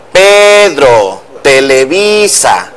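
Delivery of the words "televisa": "Televisa" slowed down, stress on the next-to-last syllable "vi". Shown as a demonstration. Teacher showing the host where the stress falls, "Televisa" slowly with stress on "vi". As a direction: spell out "Televisa" slowly, leaning on "vi". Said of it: "se vuelve alta y luego baja".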